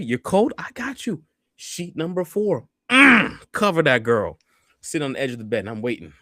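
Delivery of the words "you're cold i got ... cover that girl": high mock tender. Repeat of sheet routine.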